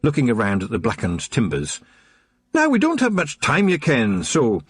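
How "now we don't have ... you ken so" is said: high Scots brogue, quick and urgent; a wee Feagle chief hurrying his lads; cheeky Scottish pixie. A narrator's reading. Rob Anybody rushing the Feagles, urgent Scots pixie.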